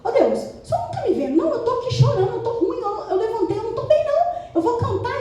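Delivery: high, hurried wail to God, laughing underneath; imitated weepy complaint; mock tearful whine. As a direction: whine as if crying, pitched well up. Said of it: "gente, desse jeito mesmo".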